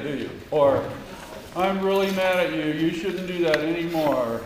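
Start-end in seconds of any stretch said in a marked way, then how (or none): 1.6-4.4 flat fake anger. Shown as a demonstration. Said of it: "You don't believe it, right?".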